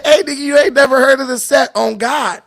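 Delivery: half-laughing retelling of the gang guy; laughing through a quote. Retold or imitated. Laughing while retelling what the Hillbilly Blood said.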